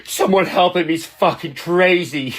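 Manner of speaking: high-pitched mock plea; hammed-up cry for help; mock alarmed critics. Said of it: "And they're like".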